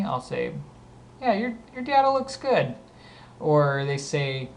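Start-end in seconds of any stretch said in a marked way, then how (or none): 1.2-2.7 much higher-pitched, lilting reply; high acted reply. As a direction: pitch it way up, then drop at the end. Acted casual reply to coworker.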